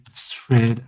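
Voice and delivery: English word in a French speaker's accent; French speaker's go at English pronunciation; self-mocked English accent. Real, not acted. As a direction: attempt an English accent on "threads", tongue-in-cheek. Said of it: "avec mon super accent anglais".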